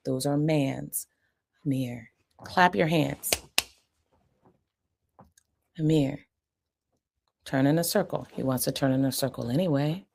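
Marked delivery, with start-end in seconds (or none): 1.6-8.3 slow, clear instruction; calm slow mand to a child; slow firm command. Shown as a demonstration. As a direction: give the command plainly and slowly. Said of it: "I might give a mand".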